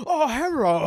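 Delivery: high mock phone greeting; Andrew's phone voice. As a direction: ham up the friend's hello. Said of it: "never picks up going".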